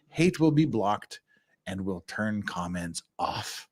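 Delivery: snooty villain reading, lightly done; evil overlord. Pretend. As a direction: read it like a smug dark lord. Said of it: "slipped into evil overlord guy voice".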